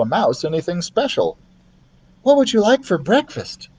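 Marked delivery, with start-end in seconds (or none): 2.2-3.7 put-on higher friendly boy; a hint of a friendly boy; boy's voice. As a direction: kind boy offering food. Keith voiced.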